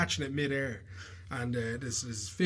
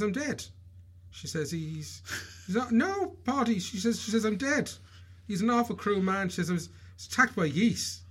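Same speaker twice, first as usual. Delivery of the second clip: much higher hammed-up lament; melodramatic wife; 9 semitones higher than usual. Wife complaining to her sisters about husband, high hammed-up lament. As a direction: wail like a wronged, dying wife.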